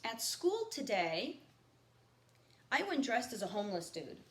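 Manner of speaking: reading a novel aloud to the class; lightly paced read-aloud, each line set down; reading a novel to students; story narration. A narrator's reading. Teacher reads novel aloud to class.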